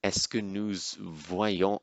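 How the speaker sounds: student French. Retold or imitated. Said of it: "one of the students would be like".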